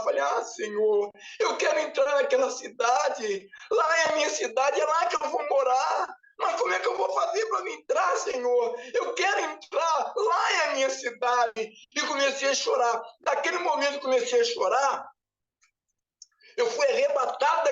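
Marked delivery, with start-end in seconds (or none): 0.2-11.7 crying plea. Retold or imitated. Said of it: "Aí eu comecei a chorar".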